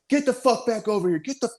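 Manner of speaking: high, urgent yelled order; retold yelling. He yells at the lieutenant mid-firefight, high retold yell. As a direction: bark him back into position. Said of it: "I start yelling".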